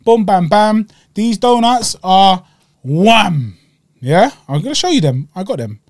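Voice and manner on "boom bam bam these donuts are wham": slow, louder Cockney market patter; Cockney trader. Retold or imitated. A Cockney donut seller pitching the deal to him, Cockney. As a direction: sell it like a Cockney barrow boy. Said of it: "Cockney as you like".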